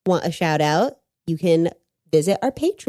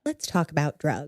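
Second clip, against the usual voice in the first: hushed; 4 semitones lower, 10 dB quieter than usual. Real, not acted. Hushed echo of the segue.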